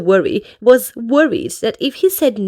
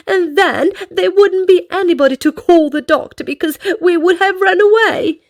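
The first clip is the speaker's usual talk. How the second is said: anxious; 6 semitones higher, 3 dB louder than usual. Acted. Worry listing fearful what-ifs.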